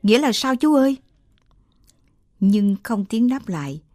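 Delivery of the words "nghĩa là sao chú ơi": a startled cry, higher and louder; alarmed, higher and louder; startled question. Acted. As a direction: blurt it out in sudden alarm. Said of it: "Chị thảng thốt hỏi".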